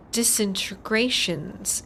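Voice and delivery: disintegrations sounded out slowly, syllable by syllable; spelling disintegrations out slowly with a rising end; careful slow pronunciation. Shown as a demonstration. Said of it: "That's a harder word to say like that".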